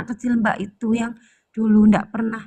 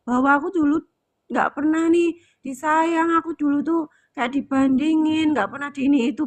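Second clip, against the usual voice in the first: put-on hurt inner child; 4 semitones higher than usual. Therapist voicing the client's inner child, lightly higher hurt plea. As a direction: let the wounded little girl finally speak up. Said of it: "biarkanlah dia bersuara ya".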